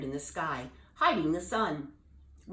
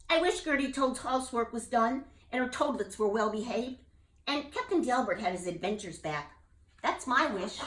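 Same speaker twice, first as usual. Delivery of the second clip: higher, earnest bullfrog voice; bullfrog wishing; 5 semitones higher than usual. Acted. Jubal making his wish for his friends, earnest. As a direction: make the wish with heart.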